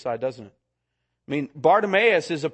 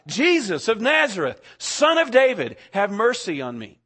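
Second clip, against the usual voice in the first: higher, louder plea, peaking on "Son of David"; desperate cry for mercy; 4 semitones higher, 4 dB louder than usual. Retold or imitated. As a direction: call out to Jesus like a blind beggar begging. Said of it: "And so he cries out".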